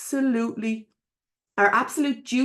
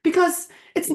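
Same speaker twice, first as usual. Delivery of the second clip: emphatic rallying call; 7 semitones higher, 5 dB louder than usual. Real, not acted. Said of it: "urging listeners, loud and high".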